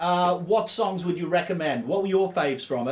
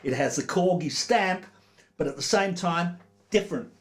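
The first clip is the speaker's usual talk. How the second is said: put-on Australian accent; 3 semitones higher than usual. Radio host reading a legend's review in Australian accent. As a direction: read the DJ quote with a hint of Aussie twang. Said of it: "so I do it in an Australian accent".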